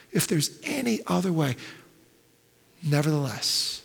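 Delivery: plead, then surrender almost silently; pleading prayer. Acted. Jesus praying to the Father in the garden, pleading fading to hush. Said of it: "Jesus cries out".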